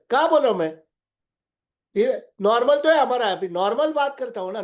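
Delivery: a man told he talks too loud, protesting loudly; loud defensive denial. Retold or imitated. ऊँची आवाज़ में बचाव करता इनकार. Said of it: "तीन बार ऊपर आवाज चला गया".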